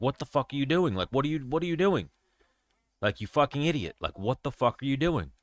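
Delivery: high-pitched, exasperated retold outburst; shouting at her in disbelief, pitch way up; incredulous angry yell. Retelling how he yelled at his girlfriend, high and exasperated. Quoting himself yelling at girlfriend.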